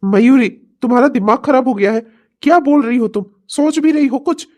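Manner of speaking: angry husband scolding; angry rebuke. Acted. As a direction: snap at her in disbelief. Husband confronts wife, angry.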